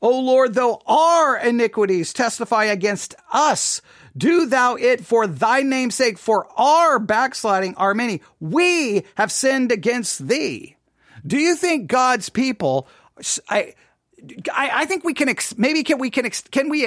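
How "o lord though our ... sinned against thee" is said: scripture read with "our", "us" and "we" punched; emphatic, drawn-out "our", "us" and "we"; stress on OUR, US, WE. Acted. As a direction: lean hard on "our", "us" and "we". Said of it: "Jeremiah is including himself".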